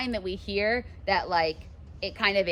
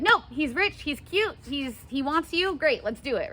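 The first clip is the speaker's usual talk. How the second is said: eager Lady Capulet; 7 semitones higher than usual. Retold or imitated. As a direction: push the match eagerly. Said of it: "Lady Capulet's like".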